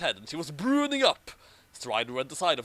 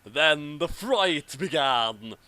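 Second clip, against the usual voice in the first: dramatic; 4 dB louder, much slower than usual. Acted. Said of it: "I had to make that line extra epic".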